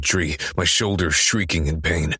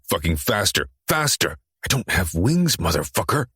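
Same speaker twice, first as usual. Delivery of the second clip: frantic urging; 2 semitones higher than usual. Acted. Frantic running argument.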